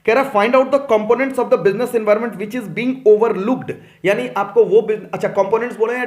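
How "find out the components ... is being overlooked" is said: slow, deliberate question reading; reading aloud. Real, not acted. Teacher reading a case-study question to students, slow and deliberate. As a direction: read the question out slowly.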